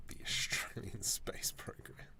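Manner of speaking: breathy hushed whisper of the phrase. Shown as a demonstration. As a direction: whisper it like a secret joke. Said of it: "when you say it like that".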